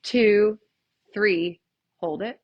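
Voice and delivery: slow guided counting; calm instructor count; counting breaths. Shown as a demonstration. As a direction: lead the breathing, unhurried. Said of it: "take a deep breath in".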